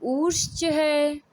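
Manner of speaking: उच्च है slow, the vowel of उच्च stretched to two beats; long vowel. Shown as a demonstration. Teacher demonstrating a long two-beat vowel, slow and stretched. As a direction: draw out the vowel in उच्च slowly. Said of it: "ये दीर्घ मात्रिक".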